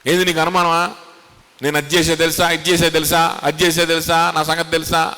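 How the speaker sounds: hammed-up offended boasting; boastful indignation. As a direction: puff up and list your deeds. Imagined boastful angry reply.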